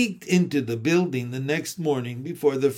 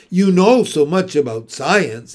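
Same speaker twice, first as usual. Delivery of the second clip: raised voice; 7 dB louder than usual. Acted. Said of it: "raised her voice even louder".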